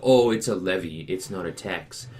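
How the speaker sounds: a utility company brushing off the customer; smug official. Retold or imitated. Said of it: "And they go".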